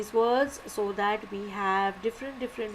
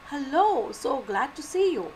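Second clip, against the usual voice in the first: put-on bright raised greeting to an old friend; excited greeting; 4 semitones higher, 3 dB louder than usual. Shown as a demonstration. Teacher showing students an excited greeting, raised and eager. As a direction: greet a long-lost friend with a lift. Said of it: "this is an exclamation".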